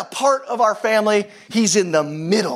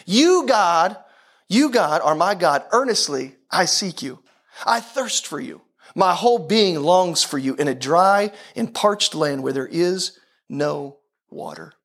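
measured, earnest psalm recitation; scripture reading; slower than usual. Acted. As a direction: declaim the verse phrase by phrase, slowing to the end. Reads the psalm aloud.

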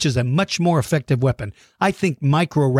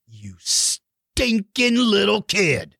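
mock outrage; 5 semitones higher, much slower than usual.

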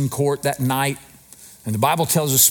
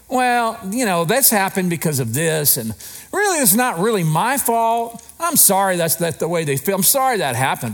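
high-pitched mock defensiveness; self-deluded excuse-making; 5 semitones higher than usual. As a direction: wriggle out of blame in a raised voice. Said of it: "we do the self-delusion method".

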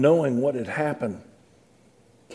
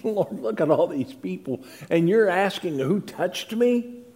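incredulous; 4 semitones higher than usual. Acted. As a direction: scoff at the question in disbelief. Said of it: "his disciples are incredulous".

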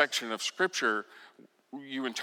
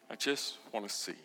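echoed plea; 2 semitones lower, 7 dB quieter, faster than usual. Acted. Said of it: "Bartimaeus answers".

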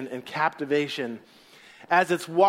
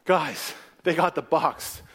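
slow emphatic; 2 semitones lower, slower than usual. Acted. Preacher slows for emphasis.

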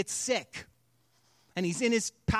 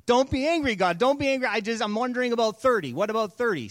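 Abraham's nervous, louder plea, a touch faster; pleading Abraham; 2 semitones higher, 4 dB louder, faster than usual. Acted. Abraham bargaining with God, anxious pleading. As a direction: coax God not to get angry.

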